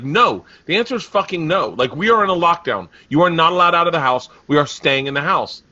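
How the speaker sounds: mildly heated father laying down the law; retold firm refusal. Father refusing daughter during lockdown, firm. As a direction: put your foot down, a touch of exasperation. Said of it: "I would just be like".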